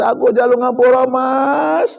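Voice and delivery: crying plea. Acted. Wife begs, crying.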